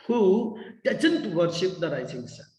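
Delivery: slow question with "doesn't" stressed; deliberate, falling question weighted on "doesn't"; emphatic question. Shown as a demonstration. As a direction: stretch "who", then press on "doesn't". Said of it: "You need to put emphasis on the question".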